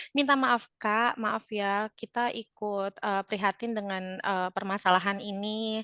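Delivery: slow, subdued, sympathetic sorry; empathetic apology. Shown as a demonstration. Seller apologising to an upset customer, empathetic. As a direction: apologise gently, drawing it out. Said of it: "baru kita tunjukkan empati kita".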